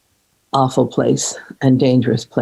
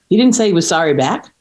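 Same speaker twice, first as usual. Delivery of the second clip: incredulous friend; 5 semitones higher than usual. Retold or imitated. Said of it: "she said".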